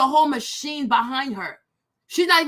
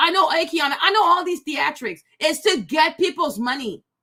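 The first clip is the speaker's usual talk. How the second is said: normal talking voice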